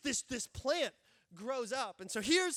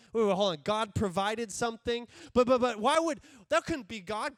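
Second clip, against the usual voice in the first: mock protest; 7 dB louder than usual. Mock objection from listener.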